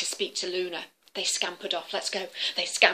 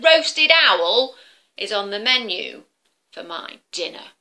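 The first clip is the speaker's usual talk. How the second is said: a whispered start then louder threat; menacing dragon; 2 semitones higher, 7 dB louder than usual. Acted. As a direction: dragon threatens to roast Luna. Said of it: "dragon threatens Luna".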